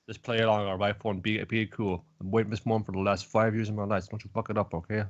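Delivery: low, hushed urgency, lightly acted; super serious. Retelling a character's secret plan to get inside, low serious aside. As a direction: drop it low as if secretly warning an accomplice. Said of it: "And then super fucking serious".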